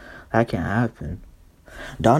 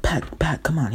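put-on higher, urging girlfriend; Joanna; 5 semitones higher than usual. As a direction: hurry a boyfriend along. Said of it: "Joanna's like".

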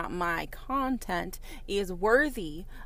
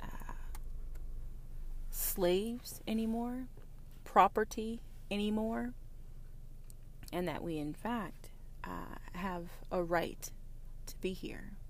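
soft, breathy near-whisper; hushed whisper; 6 dB quieter than usual. Real, not acted. Speaker telling listeners they're not slaves anymore, in a hushed whisper. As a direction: drop to a hush to make it land.

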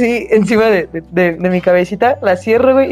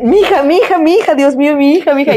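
frantic calling; 7 semitones higher than usual. Retold or imitated. Mom searching the market for her daughter, frantic cry. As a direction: call out for your daughter in panic. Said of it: "Y que se pone a gritar".

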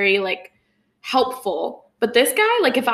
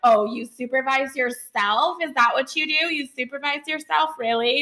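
snarky dispatcher; 2 semitones higher than usual. Retold or imitated. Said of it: "he does kind of an attitude".

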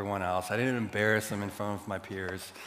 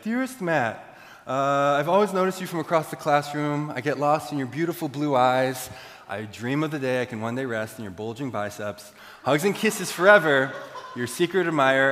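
over-the-top love note; 3 semitones higher, 5 dB louder than usual. Retold or imitated. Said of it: "I was, like, over the top".

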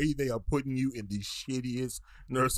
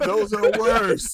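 loud, high, slower insistence; emphatic objection; 10 semitones higher, 10 dB louder, slower than usual. Real, not acted. Disagreeing with a friend about leashes, an emphatic loud objection. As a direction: push back hard on it. Arguing against monkey leashes.

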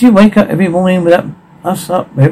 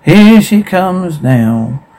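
ringmaster; 4 semitones higher, much slower than usual. Acted.

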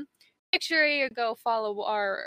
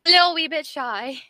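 higher, louder cutesy coo; playful mock baby talk; 6 semitones higher, 7 dB louder than usual. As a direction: coo it like talking to a toddler. Cooing at shy guest.

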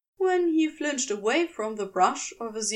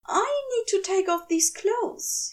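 insisting; 9 semitones higher than usual. A narrator's reading. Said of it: "he insists".

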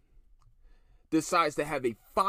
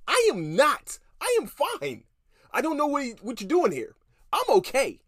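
mock denial; 10 semitones higher, 4 dB louder than usual. Mocking coworker denying conniption.

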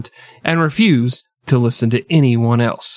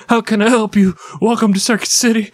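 cheery clerk voice; 8 semitones higher, faster than usual. Retold or imitated. Cheery retail greeting.

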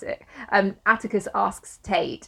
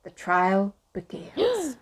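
dramatic announcement; 5 dB quieter, much slower than usual. Acted. Dramatic scene announcement with suspense sting.

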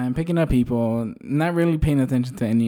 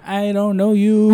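curt dismissal; 7 semitones higher, 3 dB louder, slower than usual. Retold or imitated. Driver's blunt inner reply.

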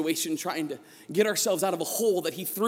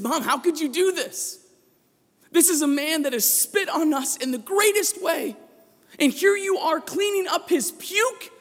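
building from raised voice to a full shout; furious son shouting at his mother, louder each line; yelling at mom; 7 semitones higher, 5 dB louder than usual. Retold or imitated. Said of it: "I yelled at her".

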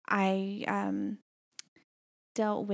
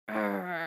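seething growl. Retold or imitated. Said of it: "I'm just like".

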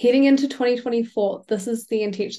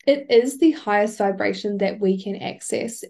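ordinary talk

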